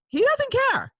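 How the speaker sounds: very high, loud wail of rejection; hammed-up wounded outburst; mock lament. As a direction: cry out like a spurned fan. Mock lament at being ignored.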